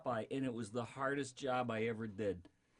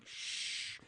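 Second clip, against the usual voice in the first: hushed, then higher slow Fudd tiptoe; Elmer Fudd voice; 6 semitones higher, slower than usual. Acted. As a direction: whisper it like a sneaking hunter. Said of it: "He was like".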